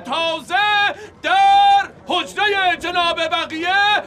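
town crier call. Acted. Town crier announces fresh meat.

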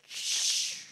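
long, voiceless shhh; imitated shushing noise. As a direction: let out a drawn-out hiss of air. Imitates a noise mid-sentence. (siseo largo, sin voz)

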